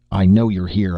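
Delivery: a furious scream. Acted. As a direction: scream it at the hiding man. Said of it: "I screamed".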